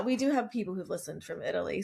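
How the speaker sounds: ordinary talk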